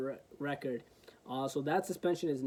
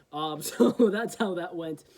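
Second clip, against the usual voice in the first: laughing; 6 dB louder than usual. Real, not acted. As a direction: chuckle through the wrap-up line. Laughs while wrapping up story.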